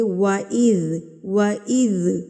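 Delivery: وَإِذْ with a soft, smooth ذ, no bounce; soft zaal. Shown as a demonstration. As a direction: say وَإِذْ gently, let the ذ flow. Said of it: "اس کو آپ نے نرمی سے". (وَإِذْ نرمی سے، ذال کو ہلائے بغیر)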